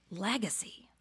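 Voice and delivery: breathy whispered repeat of legacy; whispered echo. Real, not acted. Speaker to audience, whispering the word legacy. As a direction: let the word fall to a whisper.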